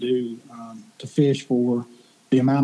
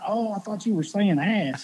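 clerk laughing; 6 semitones higher than usual. Retold or imitated. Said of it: "She said".

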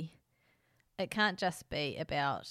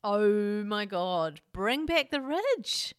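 excited; 2 semitones higher, 6 dB louder, much slower than usual. Real, not acted. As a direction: draw it out like a rallying cry. Excited call for old show.

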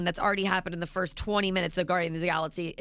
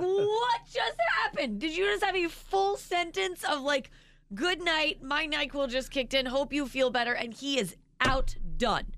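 much higher, disbelieving; incredulous; 7 semitones higher than usual. Retold or imitated. Wife stunned husband fell asleep, high disbelief. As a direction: ask it in high astonishment. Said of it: "I'm like".

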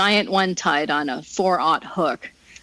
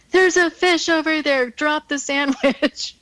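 retold yell; 8 semitones higher than usual. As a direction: call it out urgently across the flat. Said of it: "then Greg yelling".

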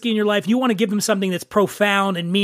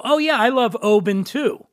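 breezy polite correction. Retold or imitated. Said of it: "So then I'll usually go".

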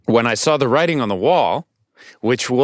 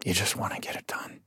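whispered and much softer, just wanting it over; tired throwaway; 3 semitones lower, 14 dB quieter than usual. Retold or imitated. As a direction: mutter it like you want to go to bed. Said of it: "like you just want, you want this conversation to be over".

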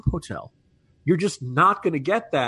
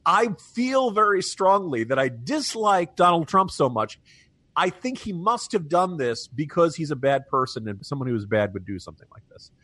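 mock Beto paraphrase; 3 semitones higher than usual. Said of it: "What he means is".

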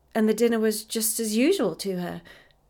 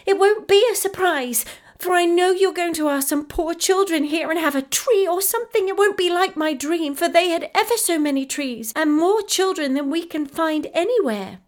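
put-on much higher, louder child calling out; called out breathlessly; 10 semitones higher, 6 dB louder than usual. A narrator's reading. Effie calling breathlessly to Mamma on the stairs. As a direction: shout down the stairs while running. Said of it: "Effie called out breathlessly".

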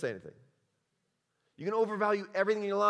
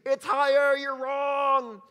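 higher, louder yell at the TV; mock yell; 9 semitones higher, 7 dB louder, much slower than usual. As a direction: shout it at the screen. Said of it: "Somebody's yelling at their T V".

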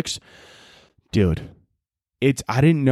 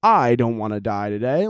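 lower, unemotional mock overdub; monotone dubbing; 5 semitones lower than usual. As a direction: read it like a bored voice actor. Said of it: "in the monotone voice".

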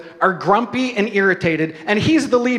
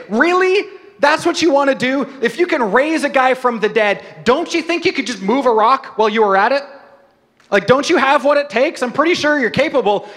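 higher, disbelieving, mock-exasperated; incredulous protest; 5 semitones higher than usual. Martha challenges Jesus about the stone, incredulous and pitched up. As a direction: throw up your hands at Jesus, voice rising.

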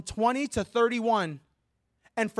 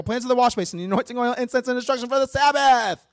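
higher, louder list pushed to the end; rapid-fire, running out of breath; 4 semitones higher, 4 dB louder, faster than usual. Shown as a demonstration. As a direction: race on until the breath runs out. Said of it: "running out of breath".

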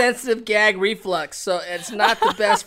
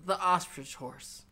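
announcer voice; 7 dB quieter than usual. Pretend. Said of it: "I wanna say, ladies and gentlemen".

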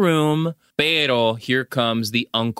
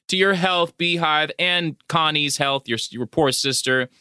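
mock toast; 4 semitones higher than usual. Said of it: "So John Carradine's like".

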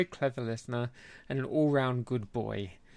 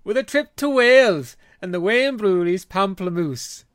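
put-on Welsh accent; 3 semitones higher, 4 dB louder than usual. Host announcing a trip to Wales in a shaky attempt at a Welsh accent. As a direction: have a dubious go at a Welsh accent. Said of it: "that's not a Welsh accent".

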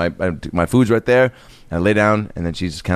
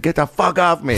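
mock angry old man; 5 semitones higher than usual. Dad shoving off drunk buddy.

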